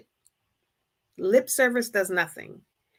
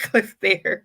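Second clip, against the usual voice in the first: laughing. Retold or imitated. Husband's quote, laugh heard.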